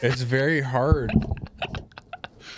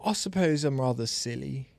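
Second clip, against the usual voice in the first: put-on British accent; understated, amateur British accent. Shown as a demonstration. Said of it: "you couldn't pass for British".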